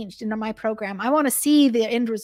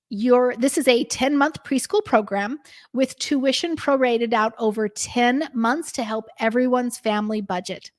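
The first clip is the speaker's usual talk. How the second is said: reassuring script. Shown as a demonstration. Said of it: "here's how I would say it".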